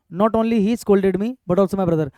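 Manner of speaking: slow repeated dictation. Shown as a demonstration. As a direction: read it again slowly for copying. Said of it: "sentence ठीक है".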